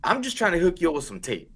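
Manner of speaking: high, quick wheedle; coaxing salesman. Retold or imitated. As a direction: sweet-talk a reluctant customer. Coaxing a reluctant customer.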